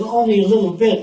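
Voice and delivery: a hint of an eager little kid; child's reply. Child answers father about school, lightly voiced child.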